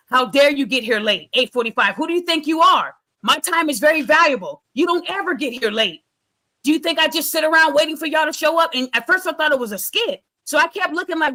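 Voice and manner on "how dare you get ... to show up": mock yell at the late lawyer, half-hearted; retold angry judge. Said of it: "He started yelling at her attorney".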